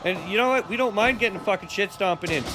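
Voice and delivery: cocky Canadian trash talk; chirping Canadian. Pretend. Canadian teaching his buddy to chirp, cocky trash talk. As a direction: chirp like a Canadian looking for a scrap.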